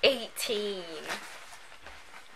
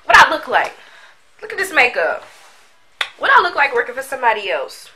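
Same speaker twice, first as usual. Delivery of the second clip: sassy, higher and louder brag; cocky; 3 semitones higher, 3 dB louder, faster than usual. Real, not acted. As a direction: show off your makeup with attitude. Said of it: "That was me having a cocky moment".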